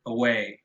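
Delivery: away with a quick, reduced schwa first syllable; away, stress on way; weak first syllable. Shown as a demonstration. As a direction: swallow the first sound of away. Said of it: "the stress is on the second syllable".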